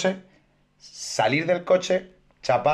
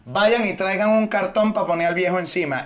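confident doctor act; 5 semitones higher than usual. Retold or imitated. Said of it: "decía".

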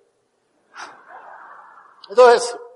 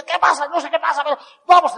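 higher, bewildered voice; confused colleague; 7 semitones higher, 4 dB louder than usual. Retold or imitated. Puzzled passenger asking what's happening, higher and bewildered. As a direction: play the lost one who goes along anyway.

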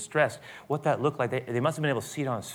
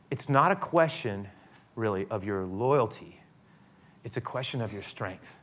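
gentle correction; 2 semitones lower than usual. Acted. Jesus gently answering Peter.

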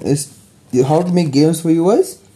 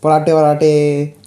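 put-on Punjabi accent; slower than usual. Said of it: "Rhyming words twice is how Punjabi speak".

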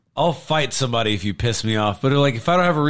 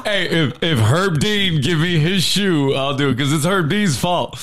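Derek Lewis impression; 3 semitones higher than usual. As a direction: lay down terms as the fighter. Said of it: "if Lewis was like".

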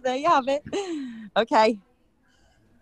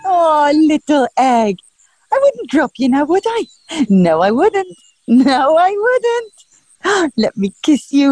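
put-on baby talk; 5 dB louder than usual.

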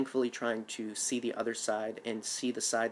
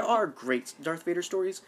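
high, odd little bug voice; cat bug voice; 6 semitones higher than usual. Real, not acted. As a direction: slip into a squeaky cat bug voice. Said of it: "took on my cat bug voice there".

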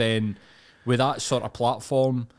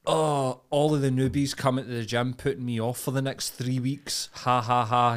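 sanctimonious. Retold or imitated. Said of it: "the sanctimonious virtue signalling".

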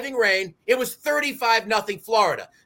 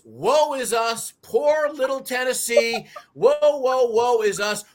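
mock victim wail; slower than usual. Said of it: "acting like victims".

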